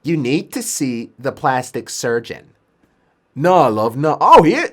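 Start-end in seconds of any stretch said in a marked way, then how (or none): 0.0-2.5 slow, measured put-on voice; nursing sister. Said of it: "Sister comes over". 3.3-4.2 lightly acted British patient; British accent. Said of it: "maybe he is British".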